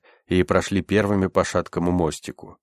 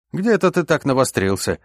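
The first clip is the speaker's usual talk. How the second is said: higher-pitched curious question; 8 semitones higher, 3 dB louder than usual. A narrator's reading. Умар quizzes the medic on his skill, curious. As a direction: ask with lively interest. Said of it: "полюбопытствовал Умар".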